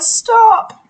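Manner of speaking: high, loud alarmed yell; sharp high yell of alarm; parents yelling stop. Acted. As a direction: shout stop to halt the child. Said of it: "her parents yelled".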